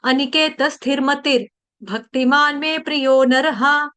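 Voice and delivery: slow measured chanting of a Sanskrit shloka; verse recitation. Shown as a demonstration. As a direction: intone the verse slowly and evenly.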